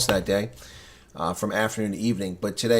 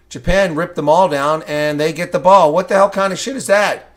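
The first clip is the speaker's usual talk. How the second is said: higher and louder, furious at the referee; outraged shout; 6 semitones higher, 7 dB louder than usual. Real, not acted. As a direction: blast the injustice. Outraged at an uncalled penalty.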